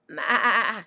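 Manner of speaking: a light goat's bleat; storybook goat bleat. Acted. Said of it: "said Goat".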